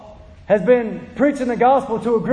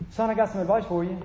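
softer, mock-calm advice; mock gentle advice; 2 semitones lower, 6 dB quieter than usual. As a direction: pretend to offer calm counsel. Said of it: "What do you think I said".

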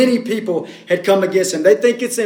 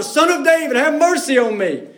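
higher, pleading call to be heard over the crowd; louder cry for mercy; 5 semitones higher than usual. Retold or imitated. Blind beggar calls louder to Jesus over the crowd, pleading. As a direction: push it louder like a desperate beggar. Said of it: "He just gets louder".

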